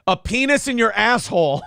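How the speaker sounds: plain American accent. Shown as a demonstration. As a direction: say it in everyday American English. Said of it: "could you say that in an American accent".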